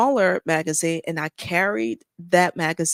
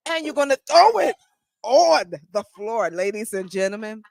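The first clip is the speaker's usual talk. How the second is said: mock announcer; 5 semitones higher, 3 dB louder than usual. Announces box thrown to audience.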